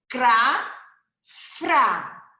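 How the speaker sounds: Cra, fra: cada sílaba dita bem separada e clara; sílabas destacadas. Shown as a demonstration. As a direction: mostre o som de Cra e de fra, devagar e nítido. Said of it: "escrita com C R". (sílabas Cra e fra bem marcadas)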